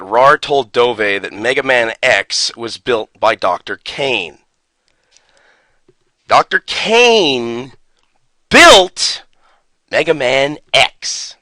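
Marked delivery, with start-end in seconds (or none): 6.3-11.4 stunned disbelief. Real, not acted. Repeating his friend's claim about the robot's maker, stunned disbelief. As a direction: let each word sink in like you can't believe it.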